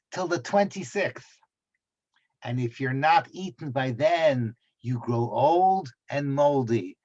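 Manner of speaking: put-on light Irish accent, measured storytelling. University classmate passing on a saying from home, light Irish accent. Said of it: "I can do an Irish accent".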